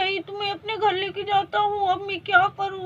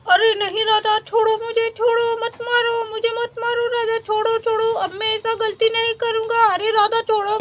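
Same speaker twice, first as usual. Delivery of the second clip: pleading for mercy; 3 semitones higher than usual. Acted. Husband begs wife to stop beating.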